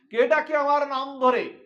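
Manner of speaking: high, loud distraught wail; anguished cry. Acted. Radha crying out, distraught at her name. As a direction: cry out as if beside herself. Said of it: "এমন করে আর্তনাদ করে, বিকারগ্রস্ত হয়ে".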